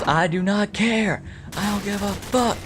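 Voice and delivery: high-pitched mock teenage defiance; imitating defiant teen. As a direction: play the angry girl talking back. Defiant teen answers her mom.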